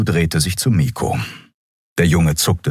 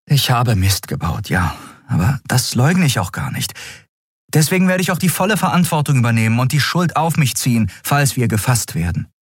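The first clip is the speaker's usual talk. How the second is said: slightly hurried, higher-voiced admission; contrite heroine; 8 semitones higher than usual. Captain taking full responsibility, earnest and a touch pressed. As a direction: own up earnestly in a lightly raised pitch.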